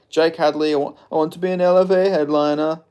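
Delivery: a hint of Kermit-style English voice; Jake Hadley impression. Shown as a demonstration. Streamer does his only impression, fighter Jake Hadley, in a mild English accent. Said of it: "Hadley is legit the only impression I can do".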